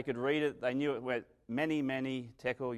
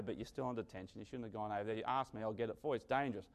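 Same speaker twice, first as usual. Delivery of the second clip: softer, patient teacher tone; softly explaining the rule to a pupil; quiet teacher; 5 dB quieter, much faster than usual. Acted. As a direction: gently lay down the rule. Teacher calmly correcting the child.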